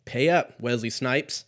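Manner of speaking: hammed-up collector barking at the debtor; mock demand. Debt collector squeezing the downloader, mock demand.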